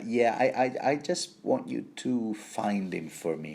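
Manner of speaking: stumbling start, then a casual request; evasive hesitation. Acted. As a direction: dodge the real order with a stammered "I, I". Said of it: "he just stops short from saying".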